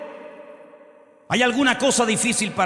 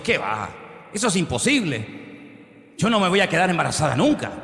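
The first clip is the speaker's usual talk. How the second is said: scoffing disbelief; 4 semitones lower than usual. Acted. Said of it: "Sara se rió burlándose".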